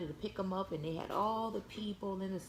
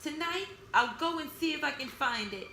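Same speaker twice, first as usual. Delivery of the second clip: bear's resolve; 5 semitones higher than usual. Acted. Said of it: "he said to himself".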